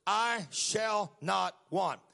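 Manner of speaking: "I shall not want" slowed right down; earnest scripture recital. Shown as a demonstration. Preacher urging young people to quote the psalm. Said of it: "You need to get this".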